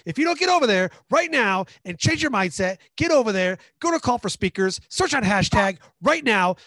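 screaming orders, high and loud; drill sergeant. Pretend. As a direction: bellow at the recruit like a drill instructor. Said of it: "Hey, give me a drill sergeant".

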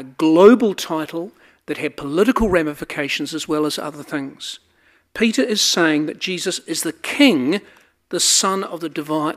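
ordinary delivery

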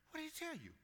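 high, anxious question; scared Saul. Acted. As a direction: ask it like you fear the answer. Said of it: "Now you're scared".

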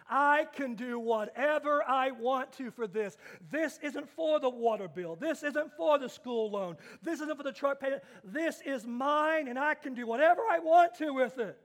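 man gloating over his twenty dollars; gleeful man with cash. Retold or imitated. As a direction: savour the freedom of your own money. Voicing man with pocket money.

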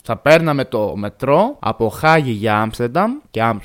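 normal talking voice

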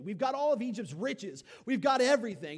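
loud, high gloat; gloating boast. Acted. Israelites gloating over Egypt's riches, loud and high. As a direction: crow over the loot.

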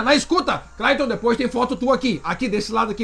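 ordinary talk

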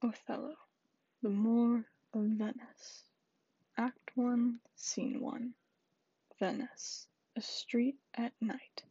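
hushed Shakespeare reading; whispered play reading. Acted.

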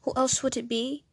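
lightly put-on British intro voice; British accent. Comedian greeting her fellow comedians, British accent. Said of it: "I did that in a British accent".

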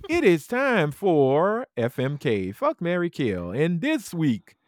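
slow, grand game announcer; show host intro. Acted. Host announcing the Fuck Marry Kill game, slow and grand. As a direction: roll it out like a gameshow host.

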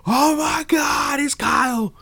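hammed-up shriek of delight; mock fangirl squeal. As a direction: squeal it like an overjoyed fan. Acts out own excited reaction.

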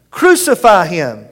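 loud shout, slowed and drawn out. Acted. Priests and guards repeating the demand, slow loud shout. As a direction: stretch the chant out heavily. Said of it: "began shouting".

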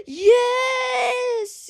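high, squealing excited yes with a laugh; imagining her thrilled, shouting yes. Retold or imitated. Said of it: "I can easily just imagine her, being like".

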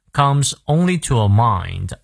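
slowly, with the diphthong in "mind" fully sounded; full diphthong. Shown as a demonstration. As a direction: stretch "mind" so its gliding vowel is complete. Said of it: "双音念到位".

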